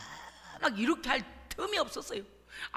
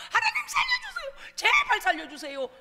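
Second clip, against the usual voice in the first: desperate plea. Acted. Voices repentant sinner crying out.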